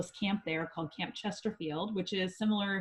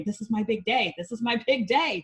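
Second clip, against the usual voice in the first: mildly acted emotional insistence, a bit higher; imitating emotional grandmother; 3 semitones higher, 5 dB louder than usual. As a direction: echo an emotional grandma's repeated announcement. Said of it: "she was emotional".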